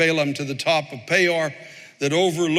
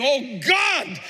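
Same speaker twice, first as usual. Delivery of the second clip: fervent prayer; 8 semitones higher, slower than usual. Real, not acted.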